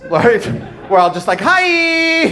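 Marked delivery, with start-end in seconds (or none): 1.4-2.2 gay voice. Retold or imitated. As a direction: squeal a high greeting. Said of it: "Gay guys all sound the same".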